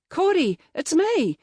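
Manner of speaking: loud high call. A narrator's reading. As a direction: call out to her. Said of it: "I called".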